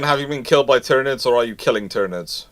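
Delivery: ordinary talk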